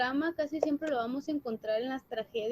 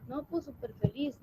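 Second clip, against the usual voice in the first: sarcastic reply. Shown as a demonstration. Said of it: "eso es como sarcasmo".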